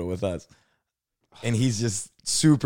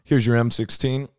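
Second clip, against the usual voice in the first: slow recruiter voice; 5 dB louder, slower than usual. Retold or imitated. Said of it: "When he'd say".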